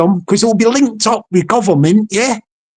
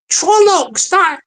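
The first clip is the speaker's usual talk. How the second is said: delighted; 7 semitones higher, slower than usual. Real, not acted. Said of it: "copyright that word".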